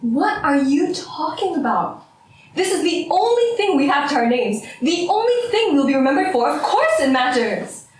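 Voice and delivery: worked-up, incredulous objection; indignant. Acted. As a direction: protest it with rising insistence. Indignant argument over the names.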